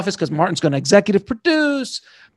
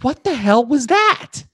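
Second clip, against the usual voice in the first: higher, slow, disbelieving; stunned question; 8 semitones higher, slower than usual. Retold or imitated. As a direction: ask it still in shock. Stunned narrator asks gangster.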